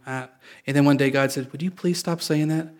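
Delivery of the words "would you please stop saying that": soft, mildly exasperated plea; a loving dad's restrained reproach; gentle frustration. Retold or imitated. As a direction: imitate a patient father, quietly fed up. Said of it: "little bit of frustration there".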